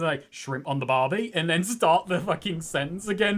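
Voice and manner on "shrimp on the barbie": imitating a failed Aussie accent; badly attempted Australian catchphrase; botched Australian accent. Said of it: "get halfway through a sentence".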